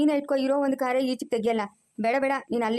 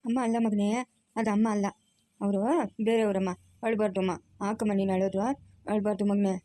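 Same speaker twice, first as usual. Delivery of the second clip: lower-pitched, comforting voice; gentle soothing; 4 semitones lower than usual. Acted. Grandmother comforts child missing his mother, soothing. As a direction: coax a crying child to calm down.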